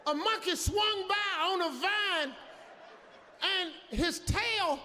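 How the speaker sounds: gasping, terrified after the run; panicked, out of breath. Retold or imitated. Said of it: "I was breathing so hard".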